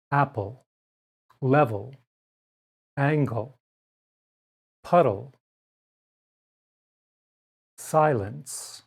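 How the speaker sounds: final syllables of "Apple", "level" said with a weak uh; careful word list; schwa demo words. Shown as a demonstration. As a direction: model each word slowly. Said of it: "may make the sound uh".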